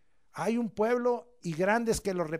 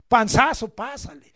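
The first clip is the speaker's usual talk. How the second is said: a hint of a teacher reading out a grade; mock teacher grading; 3 semitones higher, 9 dB louder than usual. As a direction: call out the barely-passing grade. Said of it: "A ver tu boleta".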